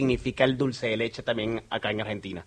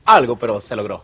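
laughing; 2 semitones lower, 9 dB louder than usual. Real, not acted. Invitado ríe sobre la lluvia.

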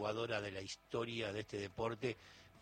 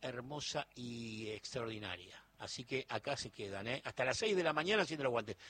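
excited sign-off; 5 dB louder than usual. Real, not acted. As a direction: hype up the late-night crowd. Host signing off, hyping listeners.

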